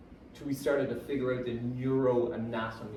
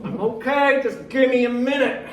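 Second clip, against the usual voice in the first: forced calm; 9 semitones higher, 9 dB louder than usual. Retold or imitated. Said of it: "you're like".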